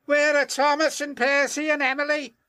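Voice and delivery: high, fast worried engine voice; looking round for his friends; surprised James. Acted. James at the castle missing his friends, high surprised voice.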